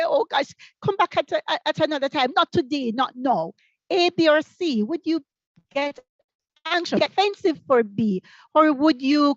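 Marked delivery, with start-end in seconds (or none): 0.0-3.5 lightly acted begging, a little raised; mild mock plea to be let off; pleading. Teacher imitating a colleague begging for another time, lightly pleading. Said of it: "start to beg and plead".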